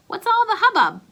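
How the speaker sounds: high, loud teasing question; amused uncle. Acted. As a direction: tease the kids for the fuss. Uncle voiced higher, louder.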